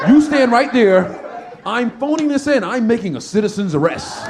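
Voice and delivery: mock officious citizen's arrest; self-important guy. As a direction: puff up like a hall monitor.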